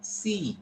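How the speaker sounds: "See" with a lengthened ee; teacher showing a long vowel in "See". Shown as a demonstration. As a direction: hold the ee in "See". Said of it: "how I'm pronouncing".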